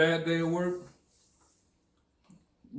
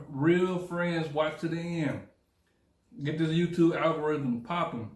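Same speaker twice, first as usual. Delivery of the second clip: mouth full. Real, not acted. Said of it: "I'm talking with my mouth full".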